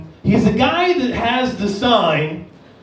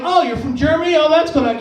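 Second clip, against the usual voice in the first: higher-pitched chirpy small talk; friendly interest; 6 semitones higher than usual. Acted. Shop worker greeting a German tourist, friendly interest. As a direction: feign interest in a customer.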